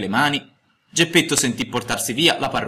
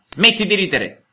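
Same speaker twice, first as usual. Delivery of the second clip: higher, slow, annoyed command; a vexed old man telling off a brat; irritated; 9 semitones higher, 5 dB louder than usual. A narrator's reading. Geppetto orders the laughing mouth to stop, irritated and slow. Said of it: "disse Geppetto impermalito".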